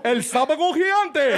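Spanish TV announcer. Pretend. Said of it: "yelling commercials at each other".

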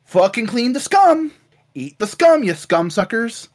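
lightly hammed-up cruel overseer; mock guard yelling. The guard bossing the catfish men, mock yelling. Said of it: "going like".

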